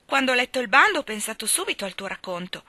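lightly voiced eager girl; a hint of bubbly schoolgirl chatter; chatty Diana. Diana explains her plan. (ragazza che racconta con leggero entusiasmo)

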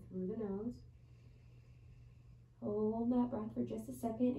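measured yoga teacher's voice with long pauses; guided yoga meditation. Real, not acted. Yoga teacher settling students into child's pose before bed, guided meditation voice. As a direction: guide them into each breath, unhurried. Leads bedtime yoga breathing.

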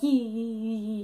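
imitating a crowd's scattered yees; string the yees out like stragglers; staggered yees. Vlogger imitates the audience echoing him, staggered yees. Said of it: "you know, not kinda staggered".

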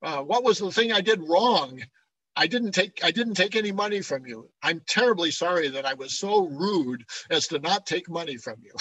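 mildly sarcastic mock confession. Paul mock-apologising to the Corinthians for not taking money, mildly sarcastic. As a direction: apologise with pointed, insincere regret. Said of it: "he's being sarcastic".

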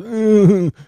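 loud squeaky wordless yelp; high strangled yelp. Acted. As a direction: squeal to flag down the bus. Fella calling the bus.

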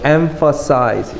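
"emphasize" with PH said as F; F and S sounds. Shown as a demonstration. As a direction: say "emphasize" as em-fuh-size. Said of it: "요 P H가 F 사운드 나가지고".

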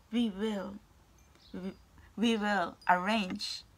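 voicing the Blessed Mother. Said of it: "the Blessed Mother is saying".

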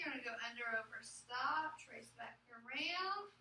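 slowly spelling out each pencil stroke; teacher talking the class through the letter, slow and deliberate; slow stroke-by-stroke directions. Shown as a demonstration. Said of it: "when you're writing the O consonant E".

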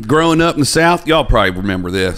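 put-on old-timer holding forth in a Southern accent. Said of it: "Southern accent, not bad".

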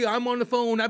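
high, hammed-up phone voice; mock distracted driver. Mocking Andy on the phone behind the wheel, high and hammed-up. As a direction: play the oblivious driver chatting away.

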